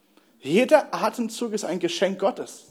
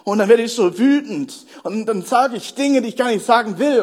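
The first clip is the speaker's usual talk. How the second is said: retold lament that climbs in pitch; retold complaint; 3 semitones higher than usual. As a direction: voice her mounting frustration, stretching the words. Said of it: "sie klagte über die Situation".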